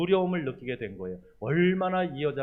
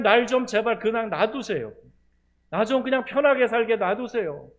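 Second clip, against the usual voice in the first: exasperated lament; 9 semitones higher, 10 dB louder than usual. Retold or imitated. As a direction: vent like a worn-out prophet at God. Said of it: "탄식이죠".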